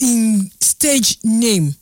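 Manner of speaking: "stage name" stretched very slowly; drawn-out stage name. Shown as a demonstration. Radio host teasing listeners, drawing out "stage name" slowly. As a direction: drag out "stage name" word by word for suspense. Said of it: "the first person wey go tell me in".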